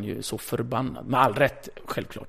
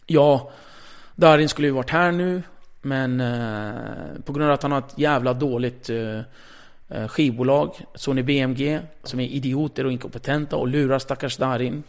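on-air rant. Retold or imitated. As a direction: blast the label live on air. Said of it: "då säger jag i direktsändning". (högljutt utbrott i direktsändning)

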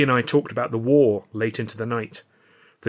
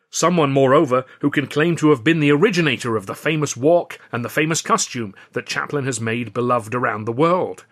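Burstein's speech; 3 semitones higher, 6 dB louder than usual. Acted. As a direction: pitch the new series to the room like a showman. Burstein builds up his speech.

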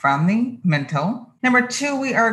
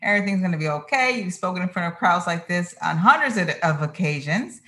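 calm self-talk. Retold or imitated.

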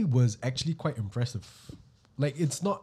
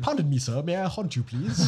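bad British accent; 3 semitones higher than usual. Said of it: "how terrible that accent was".

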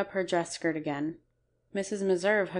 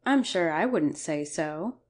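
reproachful. Acted. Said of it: "returned Missus Emerson reproachfully".

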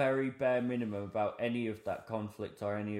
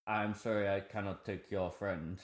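imitated Egyptian taxi driver; a not-quite-right Egyptian accent; 3 semitones lower, 5 dB quieter than usual. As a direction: put on a rough Egyptian accent. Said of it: "that's not the best Egyptian accent".

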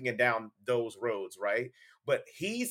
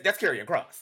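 McAfee; 3 semitones higher, 4 dB louder than usual. Retold or imitated. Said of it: "it was McAfee that punctuated it".

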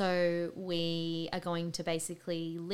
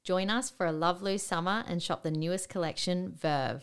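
hard sell ad. Acted. Sponsored ad read.

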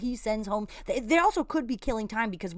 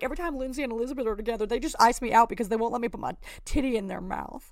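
mock jealous rant; faster than usual. Mocks contestant's grievance.

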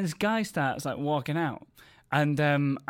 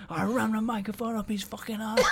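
laughing through a mock threat; laughing rant; 5 semitones higher, 3 dB quieter than usual. Comic laughing through his onstage rant at the walkout. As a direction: rant it while cracking up. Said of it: "tearing into him".

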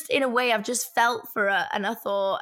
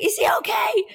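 retold alarm; 10 semitones higher, 4 dB louder than usual. Retelling alarmed look out back window.

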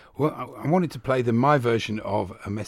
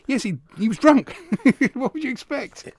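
higher, breaking into real laughter; amused laughing; 13 semitones higher than usual. Real, not acted. Radio host recounting a footballer's drunken night, amused laughing. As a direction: say it through a rising chuckle.

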